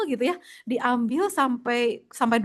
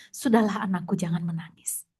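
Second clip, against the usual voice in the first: tender comfort; 3 semitones lower, 4 dB quieter than usual. Retold or imitated. Prophet comforts crying daughter.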